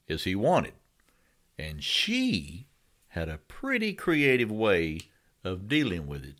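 measured narration with big pitch swings and long pauses; mock-dramatic storytelling. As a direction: draw out key words, let each phrase hang. Tells a mock-dramatic tale.

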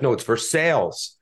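Versailles said ver-SALES; local Versailles. Retold or imitated. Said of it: "They're like".

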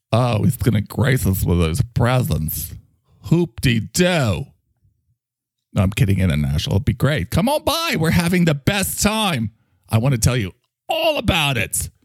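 put-on arch, theatrical gay-accented character; tease, then gush in a camp lilt; Mike. Talking microphone teasing International about visiting, camp and arch.

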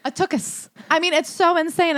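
normal talking voice

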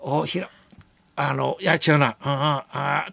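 flustered memory blank. Retold or imitated. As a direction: trail through halting self-corrections. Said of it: "ってなって". (言葉に詰まってうろたえる真似)

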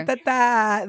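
light mock "ra-ta-ta-ta", quick and clipped; meme gunfire. Co-host quoting a meme about the ghetto, playfully. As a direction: rattle it off like the meme. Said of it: "That meme".

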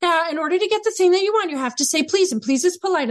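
lightly hammed-up manners dissertation; mock parental lecture. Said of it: "Sometimes we go into dissertations".

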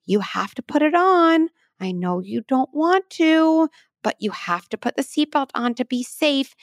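high-pitched toy parent voice; mommy dump truck. Acted. Mommy truck to little truck about the seatbelt, high coaxing pretend voice. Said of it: "maybe it's mommy dump truck".

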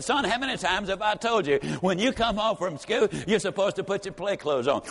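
a mother's half-shouted telling-off; scolding mother. Retold or imitated. Mother scolding her son.

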